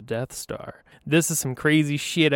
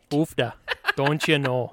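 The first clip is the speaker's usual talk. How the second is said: put-on Minnesota accent. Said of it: "Say something with an accent".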